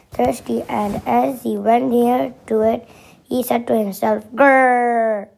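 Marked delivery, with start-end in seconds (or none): 4.3-5.3 lion growl. A narrator's reading. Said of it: "That's how lion talk".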